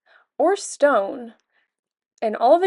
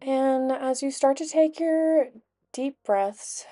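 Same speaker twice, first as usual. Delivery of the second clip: calm, unhurried guided meditation voice; 5 dB quieter than usual. Acted. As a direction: gently guide them through each breath, with long pauses.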